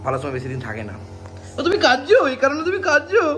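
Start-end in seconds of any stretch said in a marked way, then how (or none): 1.6-3.2 high-pitched, incredulous questioning with a laugh; raised voice, laughing surprise; teasing disbelief. Real, not acted. Teasing someone who seems to cry.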